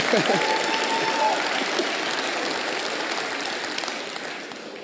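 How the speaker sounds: sudden laugh. Real, not acted. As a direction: break into laughter mid-talk. Breaks off mid-remark laughing.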